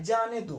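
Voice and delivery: "जाने दो" set apart as its own phrase; "जाने दो" detached from the word before it; separate phrase after pause. Shown as a demonstration. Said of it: "यहाँ विराम चिन्ह लगा है".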